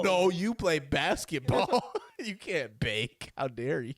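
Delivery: slow mock scolding jock. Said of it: "jocks scold the baker".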